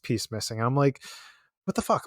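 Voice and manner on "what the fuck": high-pitched, soft mock incredulity; mock-indignant "what the...?"; retold disbelief. Retold reaction to spirit guides.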